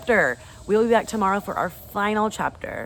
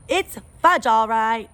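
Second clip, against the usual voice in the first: put-on much higher, louder little-boy echo; toddler echo; 6 semitones higher, 7 dB louder, much slower than usual. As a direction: chirp it back like a proud toddler. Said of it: "my brother repeated".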